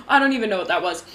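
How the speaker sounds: amused, with a real little laugh; laughing at oneself. Real, not acted. Host laughs off her muddled tip, amused at herself. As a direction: laugh off your own slip.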